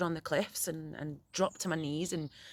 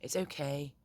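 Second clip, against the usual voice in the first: reassuring; 3 dB quieter than usual. Retold or imitated. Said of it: "I was like".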